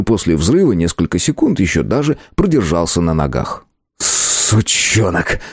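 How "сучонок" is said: slow, spat-out curse. Acted. Conan curses the shopkeeper after respawning, slow and spat. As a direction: swear under anger. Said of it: "выругался Конан".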